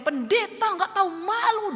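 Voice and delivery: high-pitched imitated tirade; mock the collector's public outburst; raging. Debt collector raging at the pastor before the neighbours, imitated. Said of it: "Dia ngamuk, semua tetangga dengar".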